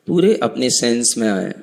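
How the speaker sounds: measured meditation guide with long pauses; calm instructions, spaced out by long silences; guided meditation. Acted. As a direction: guide them inward, phrase by phrase.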